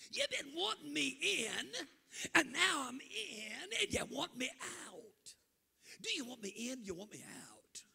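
high, loud, half laughing half crying; a tearful, giggling challenge; sister's voice. Retold or imitated. Sister in the baptistry questioning the preacher, laughing and crying.

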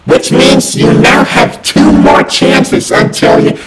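furious high shouting, loud and harsh; angry yelling. Acted. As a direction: blast every word at them in rage. Furious error message yelling at user.

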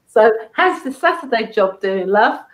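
put-on cheeky Cockney accent, teasing; imitating a husband's cheeky Cockney accent. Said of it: "with a cheeky grin and his Cockney accent".

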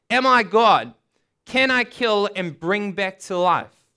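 a touch of indignant outburst; frustrated, angry. Acted. King of Israel reacting to the letter, frustrated and angry. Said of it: "Frustrated, angry".

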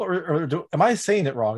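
usual speaking voice

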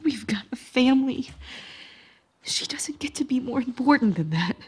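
low, strained whisper; tense whisper. Acted. Wife whispers a plea about their family, tense. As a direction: argue without raising your voice.

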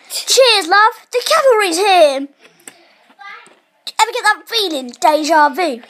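lightly voiced perky game heroine; Tracer impression. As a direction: imitate a game heroine's catchphrases. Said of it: "That was my Tracer impression".

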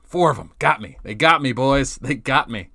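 loud dismayed outcry; exclaiming. Real, not acted. Reacting to losing in game.

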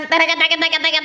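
rapid-fire "tek" rattle; toy gun sound. Shown as a demonstration. Host checking the toy's noise with child, imitated gunfire. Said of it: "yang itu bukan suaranya".

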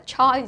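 choi read as "choy", with a "ch" sound; common wrong reading. Shown as a demonstration. Teacher shows pupils another wrong reading, mock mistake. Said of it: "nhầm đọc cái này là âm chờ".

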